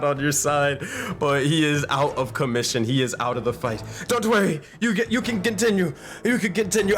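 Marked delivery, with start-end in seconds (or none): 4.1-7.0 lightly acted, higher voice; a hint of a brave wounded man; injured fighter reassuring. Injured fighter reassures his opponents.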